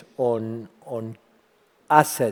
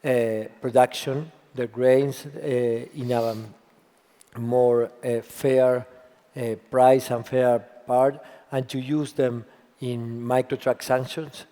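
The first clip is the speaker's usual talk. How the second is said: husky, worn voice; hoarse from yelling. Real, not acted. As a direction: talk through a voice lost to cheering. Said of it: "I ran out of voice a little bit".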